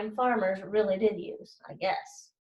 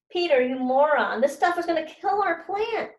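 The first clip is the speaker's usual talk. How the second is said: a hint of a whiny girl, higher and louder; whining; 6 semitones higher, 3 dB louder than usual. Lexi scolds Peter over his plant mix, a light whine. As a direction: whine it at your partner, lightly voiced. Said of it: "she whined".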